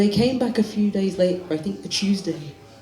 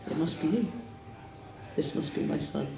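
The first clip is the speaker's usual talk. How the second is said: hushed; 9 dB quieter than usual. Acted. Father alone with son's body.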